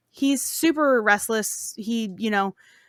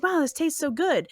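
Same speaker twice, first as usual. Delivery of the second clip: slightly higher, mock-delighted diner; retold excitement; 4 semitones higher than usual. King praising the queen's dish, mock excited. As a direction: play a mildly thrilled king over his food. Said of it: "the king is super excited".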